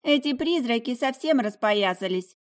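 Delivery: put-on a little old lady tutting over her tea; bearded lady, fussing. A narrator's reading. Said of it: "развела руками маленькая бородатая дама".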